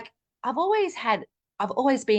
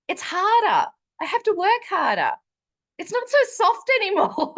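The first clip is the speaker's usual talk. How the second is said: high, louder voice breaking into laughter as she quotes her; giggling through the massage lady's words; laughing while quoting; 12 semitones higher, 5 dB louder than usual. Retold or imitated.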